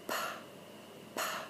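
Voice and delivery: "pa" blended slowly, p and a run together; blending demo. Shown as a demonstration. Teacher modelling blending for parents, careful slow demo. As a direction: say "pa" as one slow blended syllable. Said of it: "So we're gonna go pa".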